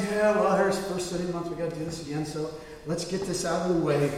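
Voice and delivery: half-hearted going through the motions; mock indifference. Churchgoer grudgingly facing the monthly ritual, mock indifference. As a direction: toss it off like a tired chore.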